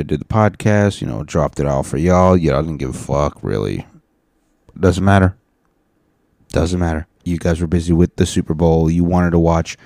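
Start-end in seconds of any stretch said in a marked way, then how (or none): 4.8-5.4 louder, punchy brush-off; emphatic dismissal. Real, not acted. Host dismissing listeners who skipped the episode, loud and emphatic. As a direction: wave it away firmly.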